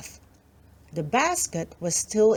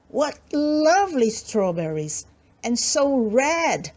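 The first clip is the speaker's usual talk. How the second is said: lightly voiced little girl; 5 semitones higher than usual. Little girl admiring fruit.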